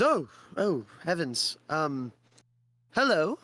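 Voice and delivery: fretful village elder explaining the trouble; old villager. Acted.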